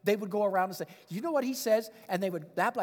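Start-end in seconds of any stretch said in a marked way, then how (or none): 1.1-1.9 higher, mocking question; lightly mock him as you pass it on; sarcastic mimicry. Paul's mockers repeating his words to others, lightly sarcastic. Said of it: "mimic the way he says it".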